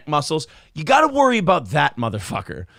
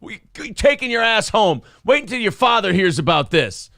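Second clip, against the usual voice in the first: mock scolding mom; 4 semitones higher than usual. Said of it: "whose mom would come and go".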